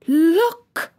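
high, loud, excited exclamation; excited whisper. A narrator's reading. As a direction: point and cry out, excited. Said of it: "he whispered excitedly".

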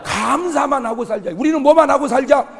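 loud, high, ringing pulpit voice; full-force preaching. Acted. Pastor rousing the congregation, loud and ringing. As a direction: drive the lesson home to the crowd.

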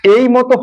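এই pronounced "ey", like the letter A; "ei" glide on এই. Shown as a demonstration. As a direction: say এই as a gliding "ei". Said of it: "উচ্চারণটা হয়".

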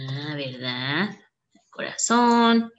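hushed little aside; whispered aside. Real, not acted. Aside while typing the post.

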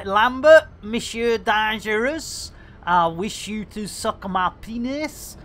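put-on Seth MacFarlane with French accent. Imagining his hero addressing him, in mock French accent. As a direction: do a hint of a hammy Frenchman. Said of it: "he's suddenly become French".

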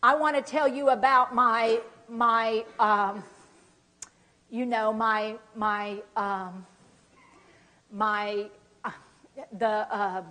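halting, searching speech; struggling for words. Shown as a demonstration. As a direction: get stuck before the noun. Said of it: "I want you to get stuck".

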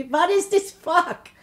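high, slow mock Jewish accent; mother's Jewish accent. Daughter mimicking her mother who knew no English, high Jewish accent. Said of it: "Her and her little Jewish accent".

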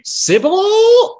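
very high, loud mock holler; Basil Fawlty-style yell. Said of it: "Basil Fawlty".

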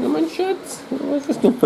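high cooing pet voice. Real, not acted. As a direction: scold the cat sweetly up high. Cooing to the cat.

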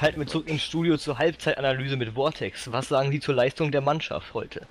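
mock sports commentary. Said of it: "so kommentieren wie ein Fußballspiel".

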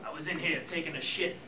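a lightly voiced film noir gumshoe; noir detective. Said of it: "Film noir".

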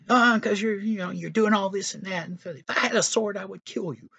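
high, hammed-up arguing voice; high mock-angry prophet squabbling with his donkey; angry Balaam. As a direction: squeal back at the donkey in mock outrage.

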